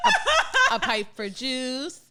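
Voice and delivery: laughing through the words. Real, not acted. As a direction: giggle it out, slowly. Joking about drink pipes.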